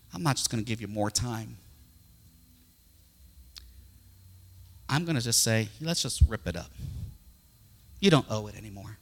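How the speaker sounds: low, gentle pardon in a king's role; merciful king. Retold or imitated. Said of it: "grace and mercy filled his eyes".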